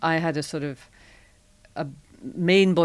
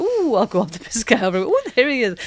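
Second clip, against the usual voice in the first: faux-casual excuse, quick, higher and louder; hammed-up coy chatter to oneself, rattled off; mock casual browsing; 5 semitones higher, 6 dB louder, faster than usual. Flirting shopper pretending to browse the aisles, mock casual. Acts out her supermarket flirting.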